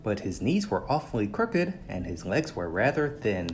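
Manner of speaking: put-on lively read-aloud for children, swinging up and down with the story; storybook reading. A narrator's reading. Narrator reading a story aloud to young listeners, animated. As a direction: tell it like a bedtime picture book. Reads picture book to children.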